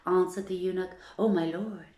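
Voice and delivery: put-on measured storyteller reading of old tale; steady, unhurried storybook narration; story reading. A narrator's reading. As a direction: read it like a bedtime tale. Reads tale aloud to listeners.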